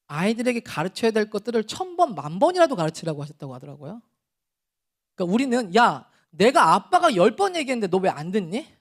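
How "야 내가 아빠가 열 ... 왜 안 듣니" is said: angry parent. Retold or imitated. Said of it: "저희가 이렇게 화를 내거든요".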